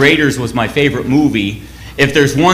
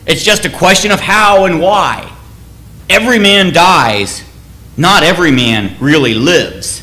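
William Wallace's rallying speech. Retold or imitated. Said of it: "He says".

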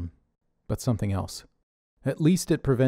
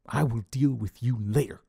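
fuming. A narrator's reading. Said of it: "Dave fumed".

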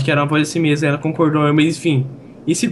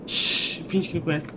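hushed; 7 dB quieter, slower than usual. Real, not acted. Pede silêncio sobre o mago.

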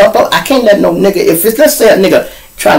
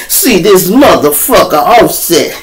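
slow, stretched mock-accent quote; a rapper's line. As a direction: mimic his drawl, building toward a laugh. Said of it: "this the other one here".

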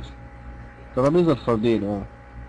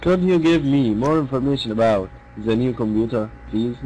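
unhurried polite request, every word spaced out; a teacher modelling a polite shop request, calm and slow; much slower than usual. Shown as a demonstration. Calm polite request. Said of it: "بنتكلم بصوت كده إيه؟ منخفض عادي".

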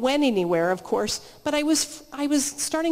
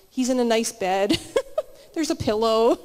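light chuckle breaking in between phrases; amused, laughing; 3 semitones lower than usual. Real, not acted. Speaker amused at picturing Jesus in bed, chuckling. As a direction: let a laugh slip out as you go.

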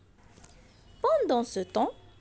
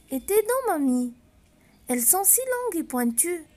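put-on worried little girl; 3 semitones higher than usual. Girl questions disguised wolf.

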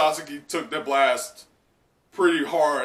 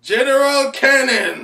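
loud high shouted attack name, a little slow; 12 semitones higher, 11 dB louder, slower than usual. Retold or imitated. Reader echoes Frankie's attack, loud and high. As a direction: call it out like an anime hero.

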